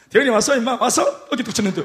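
ordinary delivery

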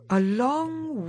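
ordinary delivery, nothing marked

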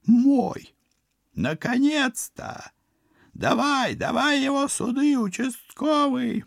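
high, gloating villain voice. Acted. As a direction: cackle it out like an evil sorcerer.

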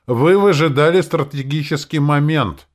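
pompous senator oratory. A narrator's reading. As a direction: proclaim it like a self-important senator. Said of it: "напыщенным тоном завершил он".

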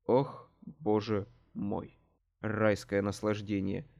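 low, slow, drawn-out relish; blissful savouring. A narrator's reading. Narrator bites into the hamburger, blissful. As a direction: sink into the pleasure of it.

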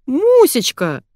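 high loud joyous yell. Acted. Manya yelling on recognizing her mother. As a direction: shout out in recognition. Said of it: "заорала Маня".

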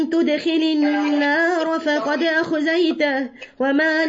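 تدخل drawn out slowly in tajweed chant; Quran recitation. Acted. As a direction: chant تدخل النار فقد أخزيته slowly. Verse recited, later spoken plainly.

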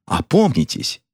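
meek little remonstrance. A narrator's reading. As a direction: gently urge him to his senses. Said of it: "кротко сказала жена".

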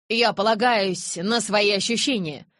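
high, loud, drawn-out nervous retort. A narrator's reading. Witness's friend joining in against the elder, high and nervous. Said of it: "высоким нервным голосом подхватил русоголовый приятель Маккены".

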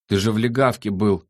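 mildly amazed, pitched a little up; surprised. A narrator's reading. The creature reacts to Sandro's news, mildly surprised. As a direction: query it with light surprise. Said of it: "удивилось существо".

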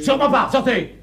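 ordre sec de mari outré; congédier l'intrus avec agacement; énervé. Acted. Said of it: "Mais ne t'énerve pas". (énervé, excédé)

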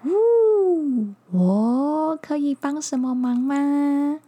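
hooting owl voice; wise owl. Acted. Owl speaks.

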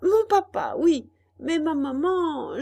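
put-on high, loud child puppet; high-pitched young Pinocchio; puppet boy voice. A narrator's reading. Pinocchio answers the puppet master.

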